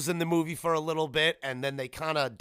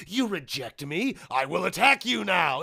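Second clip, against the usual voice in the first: mock spurned villainess; 3 semitones higher than usual. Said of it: "I don't know why they wrote that".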